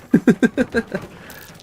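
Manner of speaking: high real laugh; burst of laughter. Real, not acted. Streamer laughs because the bomb worked, high. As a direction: laugh in relief.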